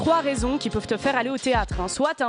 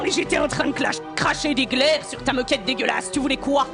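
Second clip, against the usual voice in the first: indignant rant; 4 semitones higher than usual. Acted.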